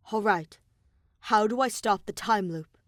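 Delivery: a hint of determination, pushing forward; determined. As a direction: ask it with firm resolve. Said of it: "Shuichi asked Monokuma determinedly".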